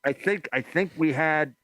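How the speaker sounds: muffled through hand; talking into his hand; hand over mouth. Real, not acted. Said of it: "don't talk into your hand".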